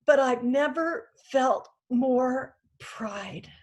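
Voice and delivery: slow, near-whispered with tears; choked up. Real, not acted. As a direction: hold back real tears, barely voicing it. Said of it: "I've stopped apologizing for this 'cause it just comes and goes".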